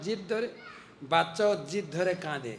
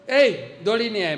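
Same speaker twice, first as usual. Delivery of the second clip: mother calling out; 3 semitones higher, 7 dB louder than usual. Retold or imitated. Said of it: "মা তো আরো ভয় খেয়ে গেছে".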